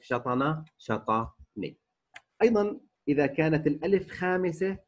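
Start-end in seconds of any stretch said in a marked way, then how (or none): 0.0-1.8 شطني slowly, split before the ending; slow teaching model of شطني; slow word-form demonstration. Shown as a demonstration. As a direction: stretch شطني out for learners. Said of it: "بحذف الألف".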